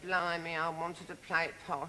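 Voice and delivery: lightly voiced Cockney complaint; a touch of Cockney Blimey. Co-star imitating her Cockney regret, lightly. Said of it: "You said".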